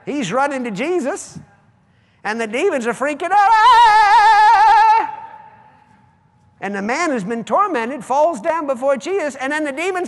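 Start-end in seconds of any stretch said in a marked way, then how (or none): 3.5-5.1 loud high shriek of fear; demon shriek. Acted. Preacher acting the demons' fright, loud high shriek. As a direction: scream like a fleeing demon.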